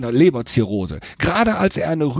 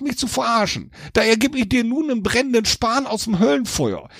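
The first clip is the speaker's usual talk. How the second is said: much higher, blunt devil voice; grudging kindness from the devil; gruff pitying devil; 8 semitones higher than usual. A narrator's reading. Devil giving Jack the ember, grudgingly. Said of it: "Da hatte der Teufel Mitleid und sagte".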